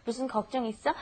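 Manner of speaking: "무슨 걱정 있어?" with the pitch going up at the end; softly modelled question, rising on "있어"; rising intonation. Shown as a demonstration. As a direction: lift "있어" a little, as a question. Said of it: "go up a little bit".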